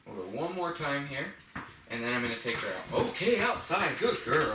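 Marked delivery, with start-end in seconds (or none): 3.1-4.6 OUTSIDE pitched high, swooping; bright-pitched cue to a dog, leaning on OUTSIDE; emphasized cue word. Shown as a demonstration. Trainer taking the dog out, high emphatic OUTSIDE. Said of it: "emphasize the word outside".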